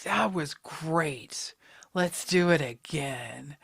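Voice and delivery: low, slow and hushed, trailing to a whisper; hushed, drawn-out self-quote; mock quiet resolve. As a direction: drag it out softly, as if talking to yourself. Acted quote of herself on New Year's Eve.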